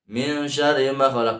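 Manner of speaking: "min" running straight into "syarri"; ikhfa not held. Shown as a demonstration. Teacher shows the direct reading, "min" not held. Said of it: "Belum masuk hukum baca ikhfa".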